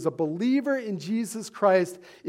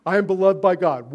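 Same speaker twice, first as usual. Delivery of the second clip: said louder, leading the crowd; loud call to repeat; 6 dB louder, faster than usual. Shown as a demonstration. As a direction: call it out for them to echo. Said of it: "One, two, three".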